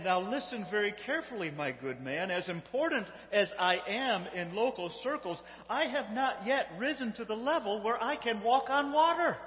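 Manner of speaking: self-important explanation, building to a high finish; acted-out haughty admission; embarrassed explanation. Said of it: "with a bit of embarrassment and little bit of humility".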